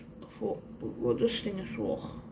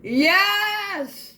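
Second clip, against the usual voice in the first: higher and louder, gushing; thrilled squeal; 5 semitones higher, 6 dB louder, slower than usual. Real, not acted. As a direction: squeal with fan joy. Fan overjoyed by item.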